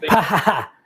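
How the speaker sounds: mock laugh. Real, not acted. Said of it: "I laughed".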